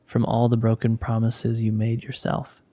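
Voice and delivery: measured, soothing spiritual blessing; guided meditation. Acted. Leader blessing the listeners as the meditation closes, guided meditation. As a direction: guide them gently with pauses between phrases.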